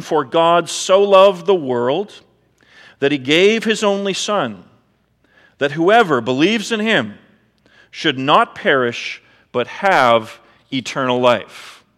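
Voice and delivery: slow, measured Bible reading; scripture reading. Acted. Pastor reading John 3:16 to the church, slow and solemn. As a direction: read the verse slowly and with weight.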